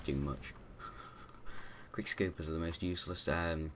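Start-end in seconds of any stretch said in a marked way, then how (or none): 0.6-1.9 quiet, breath-only laugh; soft chuckle. Real, not acted. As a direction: chuckle softly under your breath. Chuckles at the weak player.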